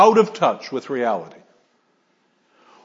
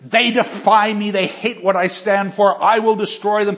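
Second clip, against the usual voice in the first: defiant Quixote; 6 semitones higher, 4 dB louder than usual. Retold or imitated. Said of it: "you know".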